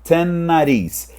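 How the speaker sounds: ten nariz, the n of ten run into nariz; linking trick. Shown as a demonstration. English teacher showing learners a nasal n, "ten nariz" drawn out. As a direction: stretch ten nariz slowly, holding the n. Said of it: "você tira o ariz e você fica com um n de nariz".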